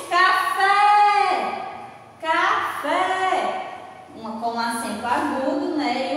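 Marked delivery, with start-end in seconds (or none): 0.1-1.6 "café" called out high, FÉ long and strong; stress on FÉ. Shown as a demonstration. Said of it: "o fé é que é a sílaba mais forte". 2.2-3.7 "café" higher, ending on a held, strong FÉ; stress on FÉ. Shown as a demonstration. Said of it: "o fé é que é a sílaba mais forte".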